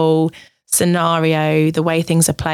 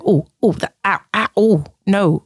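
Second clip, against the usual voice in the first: mock pained protest; 2 semitones higher than usual. To a partner, a mock pained, laughing protest.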